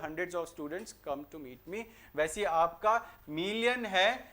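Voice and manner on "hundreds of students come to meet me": slow example. Shown as a demonstration. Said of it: "formation आपकी किस तरीके से बनती है".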